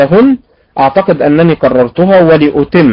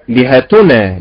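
لهتنا with falling tune, stress early; first way to say لهتنا; first variant; slower than usual. Shown as a demonstration. Teacher showing three ways to stress a word. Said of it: "تنطق بثلاث طرق".

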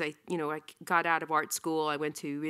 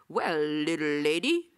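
whispered cowboy drawl, slow; imagined editor in a whispered cowboy accent. Retold or imitated. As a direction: breathe it like a folksy cowboy. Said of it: "like, cowboy accent".

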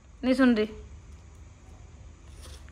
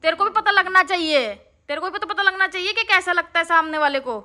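hurt retort; 5 semitones higher than usual. Real, not acted.

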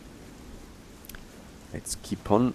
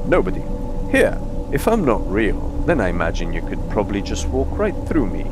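creature voice; 2 semitones higher, 3 dB louder, faster than usual. Acted. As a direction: give the creature more punch. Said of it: "I'll reread that".

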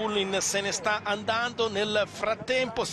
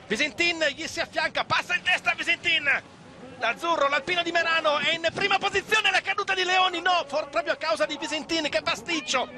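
breathless italian goal commentary; 4 semitones higher than usual. Real, not acted. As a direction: call the overtake as it happens. Live race climax, overtaking, crash. (telecronaca concitata e senza fiato)

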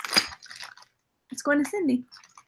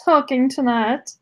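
breathy vintage purr. Acted. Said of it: "This is Penelope von Schnitzelwitzel".

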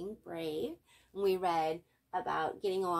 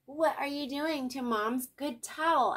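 DW voice; 6 semitones higher, 4 dB louder than usual. A narrator's reading. DW questioning Arthur.

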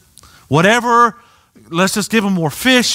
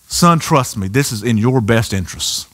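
parent reassuring; 10 semitones lower than usual. Retold or imitated. Parent voiced to child.

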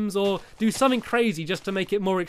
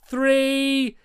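raised, drawn-out countdown; higher, held-out counting to launch everyone; countdown call; 5 semitones higher, 3 dB louder, much slower than usual. Real, not acted. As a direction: call the count before a big jump. Counting down to a group jump.

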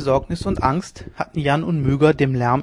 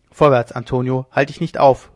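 loud urging call up the stairs; 5 dB louder than usual. Acted. Leone urging Antonio on, loud calling. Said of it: "rief Leone".

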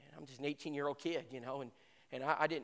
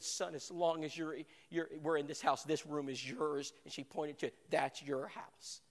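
tender welcome; 2 semitones lower, 4 dB quieter, slower than usual. Retold or imitated. Mother welcomes the homeless boy.

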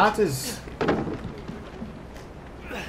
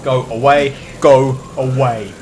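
desperate pleading; begging; 3 dB louder, slower than usual. Real, not acted. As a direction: beg for mercy, voice strained. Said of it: "I am begging you".

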